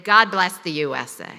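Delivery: mild retold roar of a crowd; lightly voiced full-throated chorus; full throttle. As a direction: call it out like six hundred cadets. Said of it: "said at full throttle".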